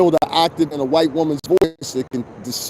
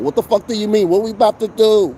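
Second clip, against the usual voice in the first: high, brash New York-style woman's voice; imitating Katie; 8 semitones higher than usual. Quoting his ex Katie in a high brash voice. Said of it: "my ex Katie used to talk just like that".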